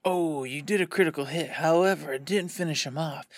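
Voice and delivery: lightly voiced dramatic game master narration; theatrical game master. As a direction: draw out the mock-epic storytelling a little. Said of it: "Or he's gonna be like".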